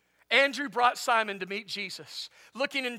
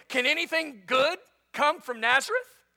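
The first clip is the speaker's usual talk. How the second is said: higher, incredulous question; exclaimed question; 4 semitones higher, 4 dB louder than usual. Acted. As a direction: ask it as a doubting exclamation. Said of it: "exclaimed Nathanael".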